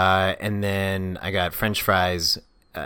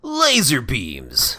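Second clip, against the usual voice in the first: slow silly voice; 4 semitones higher, much slower than usual. Pretend. Slow silly not-recommend item.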